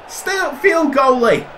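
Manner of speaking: high, urgent shout at the keeper; urgent shout to the goalie to stay upfield; shouted order. Real, not acted. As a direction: yell it across the pitch.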